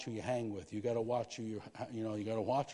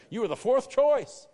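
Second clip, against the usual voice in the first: much higher, much louder and slow; booming voice of God; 12 semitones higher, 15 dB louder, slower than usual. Retold or imitated. God warning the pastor not to get cocky, booming slowly. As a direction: thunder the words down slowly from above.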